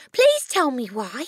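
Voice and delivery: put-on high, slow, loud child's appeal; pleading cry. A narrator's reading. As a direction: beg the teacher, drawing it out. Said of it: "Matilda cried".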